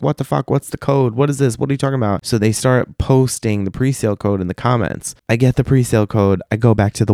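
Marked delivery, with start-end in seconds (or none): 0.0-2.2 higher, rapid-fire chorus of questions; mock clamour of confused fans; panicked commenters. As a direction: imitate a crowd demanding answers. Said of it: "everyone's like".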